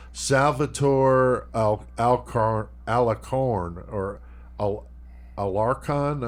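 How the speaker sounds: halting, stumbling tries at "Alcar-, Alacorn, Alarcon"; unsure pronunciation. Real, not acted. Co-host reading out a federale's name, unsure how "Alarcon" is said. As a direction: feel out "Alarcon" syllable by syllable after false starts. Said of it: "I'm butchering the, the pronunciation".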